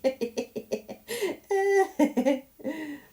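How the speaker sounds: loud high burst of laughter; laughing. Real, not acted. Laughing at herself.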